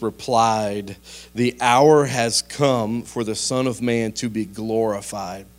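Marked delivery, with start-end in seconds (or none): 1.3-5.5 slow, measured Bible reading; scripture reading. Acted. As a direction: read the verse out slowly and deliberately. Reads scripture aloud.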